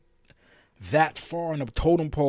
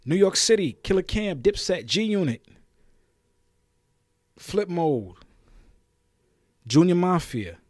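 shout-out; 5 semitones higher, 4 dB louder than usual. Real, not acted. Calling out New York crews.

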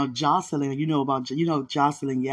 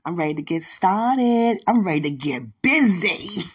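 excited; 3 semitones higher, 5 dB louder than usual. Real, not acted. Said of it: "I'm excited".

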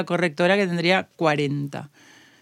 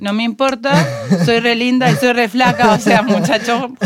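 sassy retort; 2 semitones higher, 4 dB louder than usual. Retold or imitated. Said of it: "Y yo le dije".

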